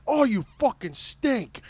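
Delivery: high, loud, drawn-out scolding; imitated dad, loud and slow; disgusted dad. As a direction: scold your kid in mock disgust. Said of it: "And he's just like".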